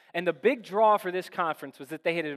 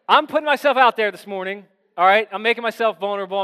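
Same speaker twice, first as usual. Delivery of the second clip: emphatic; 4 semitones higher, 10 dB louder than usual. Real, not acted. Preacher appealing to congregation.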